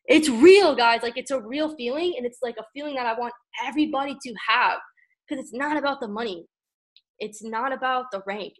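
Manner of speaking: fighting back real tears; crying. Real, not acted. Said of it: "I'm crying right now".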